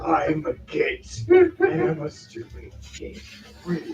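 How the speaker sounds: slow, high-pitched creature voice; dragon in disbelief. Acted. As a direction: draw it out in slow, incredulous realization. Game master acts the dragon's reply.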